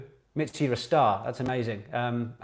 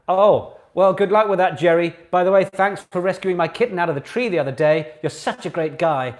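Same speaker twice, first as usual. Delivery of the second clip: sarcastic mock praise; 3 semitones higher, 6 dB louder than usual. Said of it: "everyone started commenting like".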